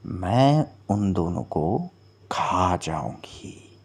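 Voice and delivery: slow, low, sinister promise; menacing mermaid. Acted. Mermaid tells Aditya she will devour both witches, slow and menacing. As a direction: draw it out like a hungry predator.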